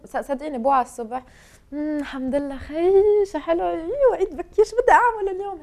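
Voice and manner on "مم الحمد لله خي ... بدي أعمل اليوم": high, delighted waking-up chatter; cheerful morning wake-up. Acted. Woman showing the host how she wakes each morning, cheerful and high. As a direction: greet the new day eagerly, pitch lifted. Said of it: "هيك بوعى".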